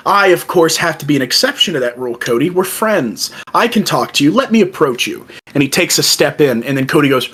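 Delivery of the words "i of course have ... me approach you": Paul Heyman quote. Retold or imitated. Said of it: "Paul Heyman goes".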